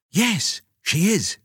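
high, anxious mother's voice; fretful high mother; worried. Acted. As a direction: jump in nervously for your child. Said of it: "said Mum in a worried voice".

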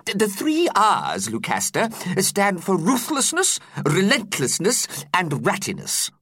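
put-on high, fretful old teacher voice; worried teacher explaining. A narrator's reading. Teacher explaining to pupils in his high worried voice. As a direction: explain it with a nervous quaver in mind.

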